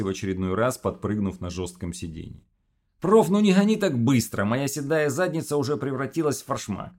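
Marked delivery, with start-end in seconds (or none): 3.0-6.9 high, loud Odessa grumble; odessa russian accent. Acted. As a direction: complain with an Odessa lilt. Phil complains, Odessa-style.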